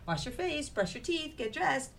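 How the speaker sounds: Mama Chicken voice. A narrator's reading. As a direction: call it out like a brisk mom waking her chick. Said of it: "This is all Mama telling little chicken to do stuff".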